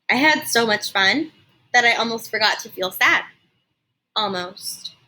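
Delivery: put-on lively read-aloud narration for kids; expressive storybook reading for a class; story narration. A narrator's reading. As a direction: tell it like storytime on the rug. Teacher reads story aloud.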